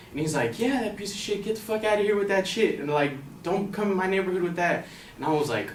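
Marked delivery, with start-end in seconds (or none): 0.6-4.9 lightly voiced heckler, higher-pitched; mock-aggressive complaint; angry stranger's rant. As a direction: imitate a man ordering you off, without shouting. Acting the angry man confronting him.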